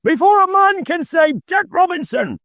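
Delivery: a fat, jovial boss hollering for his apprentices. A narrator's reading. Fezziwig urging the apprentices.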